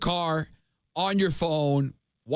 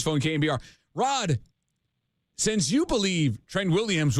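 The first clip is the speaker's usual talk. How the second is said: game show host voice. Pretend. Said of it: "game show host voice".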